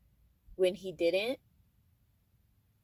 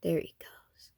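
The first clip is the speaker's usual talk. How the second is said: whispering; 2 semitones lower than usual. Real, not acted. Watching the moth fly off.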